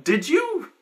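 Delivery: very high squeaky question; stunned. Retold or imitated. Player suspecting what the friend did, squeaky. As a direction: squeak it out in shock. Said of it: "I'm like".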